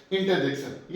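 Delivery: इंटरजेक्शन said deliberately as a model word; correct pronunciation. Shown as a demonstration. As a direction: pronounce इंटरजेक्शन clearly with a falling end. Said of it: "pronunciation क्या होगी इसकी".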